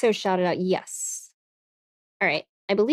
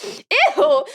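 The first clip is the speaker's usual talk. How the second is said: tsundere disgust; 12 semitones higher, much slower than usual. Pretend. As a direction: squeal it in mock disgust. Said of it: "I'm supposed to be a tsundere".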